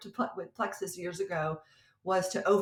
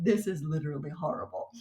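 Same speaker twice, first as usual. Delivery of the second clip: laughing aside; 6 semitones lower than usual. Retold or imitated. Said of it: "dying laughing because I'm like".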